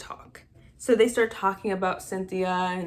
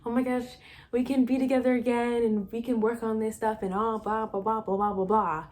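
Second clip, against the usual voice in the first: lightly imitated gushing, a little higher; mock happy gushing; 3 semitones higher than usual. Annie happy to be back with her ex, mock gushing. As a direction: gush it, then trail into blah-blahs. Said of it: "Annie is so happy".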